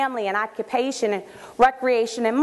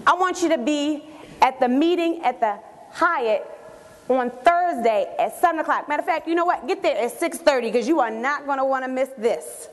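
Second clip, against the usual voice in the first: excited. Acted. Telling a close friend about the meeting, excited and insistent. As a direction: spill big news, landing hard on each detail. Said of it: "sense the excitement in my voice".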